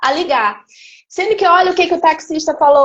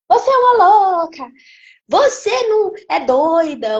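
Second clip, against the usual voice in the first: retold angry yelling; 4 semitones higher than usual. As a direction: throw the accusation at her, hammed-up yell. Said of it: "ele já saiu gritando". (imitando um grito furioso, mais alto e agudo)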